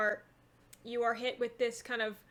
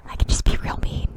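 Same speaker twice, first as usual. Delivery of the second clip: loud, rough voiceless burst; shriek volume; 13 dB louder, faster than usual. Shown as a demonstration. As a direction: demonstrate a mean, ear-splitting delivery. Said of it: "low keen to shriek volume".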